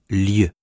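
"lieu" said as a drawn-out ly sound; palatal L. Shown as a demonstration. Teacher showing regional double L, "lieu" as slow ly. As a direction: sound out "lieu" slowly as l plus y. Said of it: "qui se prononce, selon les régions".

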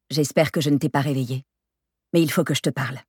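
composed, measured phone voice; understated, controlled seriousness; calm but firm. A narrator's reading. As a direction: state it evenly and steadily. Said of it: "d'une voix calme, mais ferme".

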